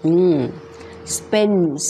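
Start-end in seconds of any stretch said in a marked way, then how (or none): 1.2-1.8 "spends" with the S clearly audible at the end; slow "spends", sounding out its closing S; final S sounded. Shown as a demonstration. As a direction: finish "spends" on a clear hiss of S. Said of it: "มีเสียง S นะคะ".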